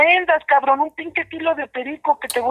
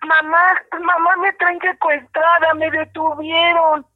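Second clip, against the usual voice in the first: man doing a woman's voice; 3 semitones higher than usual. Shown as a demonstration. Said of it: "Mejor llórale así".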